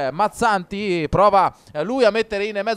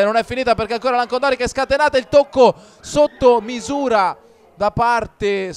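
excited commentary; 4 semitones higher, 4 dB louder than usual. Real, not acted. Another chance, live.

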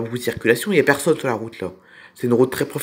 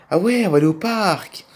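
lightly voiced keen child, a little higher; child Peggy; 4 semitones higher than usual. Child answering father about the park, lightly voiced and keen. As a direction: play a child pleased with the idea.

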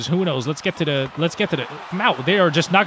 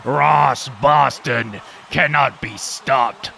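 mock announcer; 5 semitones lower, much slower than usual. Mock announcer hyping his player.

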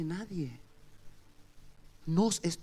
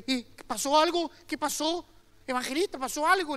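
ansiosa; 9 semitones higher, 5 dB louder than usual. Retold or imitated. La madre pregunta al evangelista.

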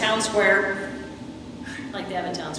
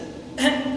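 scoffing laugh; 4 dB quieter than usual. Retold or imitated. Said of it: "Nathanael laughs at him".

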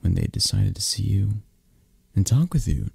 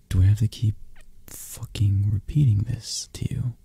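angry whisper. Acted. Boss losing patience with the listener, whispering angrily. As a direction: drop to a seething whisper.

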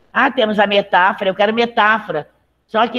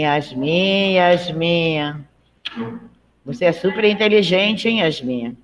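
a teasing, ironic compliment to a pupil; ironic praise; slower than usual. Shown as a demonstration. Teacher demonstrating irony to the class, ironic tone. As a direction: say it as mock praise you don't mean. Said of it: "Dependendo do tom da minha voz, eu tô sendo irônica".

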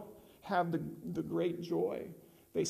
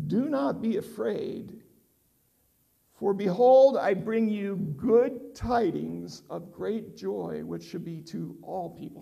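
angel's announcement; 4 dB louder than usual. Acted. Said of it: "he says to them".

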